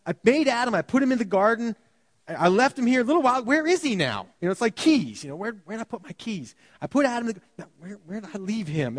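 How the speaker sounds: lightly voiced absent-minded God; mock forgetful God. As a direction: play God as if he lost his keys. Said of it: "can you picture God".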